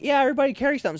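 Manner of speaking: pushy order, acted out; mock barked order. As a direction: imitate an instructor ordering recruits about. Voicing the sergeants' order to recruits.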